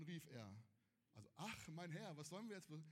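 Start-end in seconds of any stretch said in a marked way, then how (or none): 1.4-2.8 deadpan echo to show the phrasing is too cute; mock flat rereading. Shown as a demonstration. Preacher mocking the tame Bible wording to the youth, deadpan. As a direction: repeat it flatter, mildly mocking the tame wording. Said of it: "ja, also, hallo, ne?".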